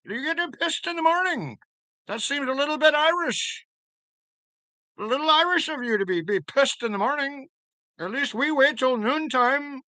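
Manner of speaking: very high, teasing British voice; British accent. Pretend. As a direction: tease someone in a high-pitched mock British accent. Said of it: "your bloody best British accent".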